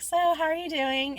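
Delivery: light, casual check-in with a lead-in "so"; friendly greeting. Shown as a demonstration. Worker greeting coworker called into office, friendly. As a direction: open gently, as if all is fine. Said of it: "I say it just like this".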